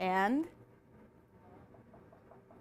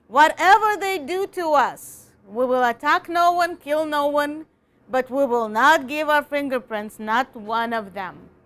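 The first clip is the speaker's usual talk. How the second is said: a bit louder, emphatic "no" and "not"; speech reading; 3 dB louder than usual. Shown as a demonstration. Teacher reading the longer sentence with force. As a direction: read it as a stirring speech. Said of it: "Let's see his next sentence".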